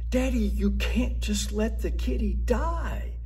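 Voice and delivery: put-on high pleading kid voice from the back seat; child's voice. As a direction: beg like a little kid who spotted a kitten. Kids begging father in car.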